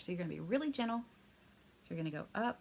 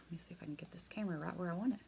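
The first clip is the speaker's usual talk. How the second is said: whispered aside; 6 dB quieter, much faster than usual. Real, not acted. Fixing camera, aside to self.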